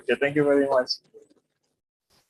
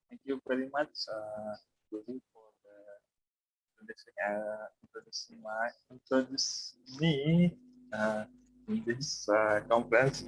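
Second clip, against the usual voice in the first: stage fright; 2 semitones lower, 9 dB quieter than usual. Real, not acted. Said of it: "I'm really nervous right now".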